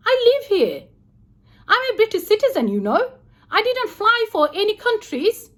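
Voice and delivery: retelling an indignant row with hotel security; indignant anger. Retold or imitated. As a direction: protest your rights to the guard. Retold heated row with security.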